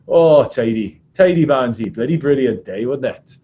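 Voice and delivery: lightly voiced Welsh prop, punchy and loud; Adam Jones. Welsh prop greeting the referee after the win, lightly mimicked. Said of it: "He said".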